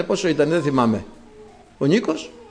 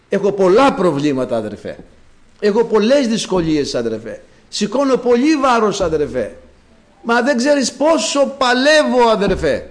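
a hint of a weary parishioner pleading; complaining believer; 2 semitones higher than usual. Preacher voicing a believer who complains to him, mildly pleading. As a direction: lightly voice a tired believer whining to his brother.

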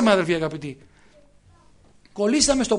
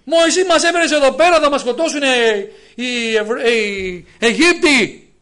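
grumbling complaint; slower than usual. Retold or imitated. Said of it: "γκρίνια".

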